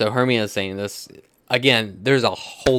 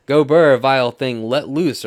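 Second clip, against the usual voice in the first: loud acted insult, raised pitch; stage yelling; 4 semitones higher, 9 dB louder than usual. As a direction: hurl it out in a theatrical quarrel. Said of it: "Everybody is just yelling at this point".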